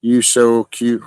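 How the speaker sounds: put-on slow, cooing baby talk; teasing baby talk. Teasing a grumpy partner in slow baby talk. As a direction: coo it slowly to tease. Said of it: "I do that to Chrissy".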